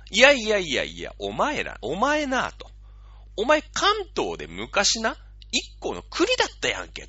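Russia berating a traitor, a hammed-up tirade; retold angry rebuke. Tokyo-as-Russia scolding Kanagawa, mock angry rebuke. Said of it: "もう、激怒してんの".

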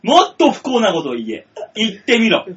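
tough talk. Pretend. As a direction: press him like a yakuza. Yakuza demands misfortune.

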